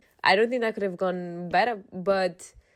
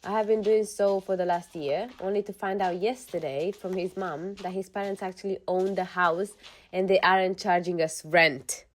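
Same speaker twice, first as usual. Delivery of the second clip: even-paced reading of a personal post; measured first-person narration; story read-aloud. Acted. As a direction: read it out like someone's confession. Reads a posted story aloud.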